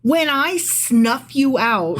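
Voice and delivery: slow, deliberate menace; menacing quote. Acted. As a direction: drag out the threat like a villain. Quoting God's threat menacingly.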